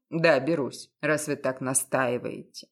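as if nothing happened; matter-of-fact. A narrator's reading. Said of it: "буднично, как ни в чём не бывало".

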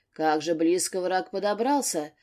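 usual speaking voice

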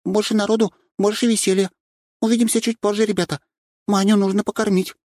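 high, bubbly chatter; cheerful. A narrator's reading. Nastya greeting newcomers, bubbly high voice. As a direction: bounce off happily.

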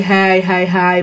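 imitated mindless "he he he", droning; mock laugh with nothing behind it; vacant laugh. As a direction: laugh emptily like a clueless child. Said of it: "theo cái kiểu vô tri".

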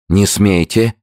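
breathless, gasping out the words; shallow breathing. A narrator's reading. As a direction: gasp it out short of breath. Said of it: "задыхаясь".

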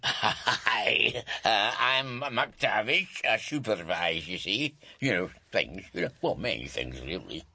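badly faked Scottish supervisor; fake Scottish accent. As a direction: put on a halting, dubious Scottish accent. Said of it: "What happened to your Scottish accent".

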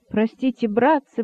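ordinary delivery, nothing marked

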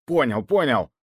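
forced out through gritted teeth. A narrator's reading. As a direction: grit teeth and concede. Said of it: "процедил он сквозь зубы". (сквозь зубы)

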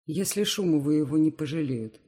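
slurred tipsy words; drunk slurring. Acted. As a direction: slur it like a drunk uncle. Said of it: "заплетающимся языком вставляет Митрич".

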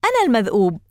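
loud manic cry; wild shout. A narrator's reading. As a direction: bellow it at them. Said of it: "صاح الناسك مجددا".

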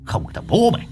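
squeaky high-pitched retort; a shrill little spirit snapping back; high ghost voice. Acted.

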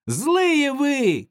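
put-on high, loud angry child's shout. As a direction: fling it at the laughing crowd. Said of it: "кричал Колька".

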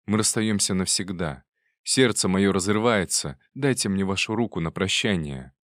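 ordinary delivery, nothing marked

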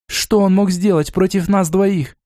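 a touch of disdain; contemptuous. Acted. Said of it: "презрительно бросила Лона".

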